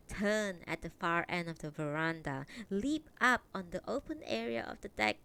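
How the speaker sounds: measured read-aloud storytelling; story narration. A narrator's reading. Reading a translated Japanese novel to stream viewers, story narration. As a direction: read the novel out clearly, phrase by phrase.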